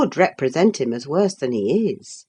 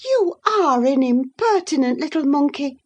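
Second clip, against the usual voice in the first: high, startled rebuke; surprised exclaim; 9 semitones higher than usual. A narrator's reading. Sister-in-law rebuking Isabella, high and surprised. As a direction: voice raised high in shocked disbelief. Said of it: "exclaimed Missus Linton in surprise".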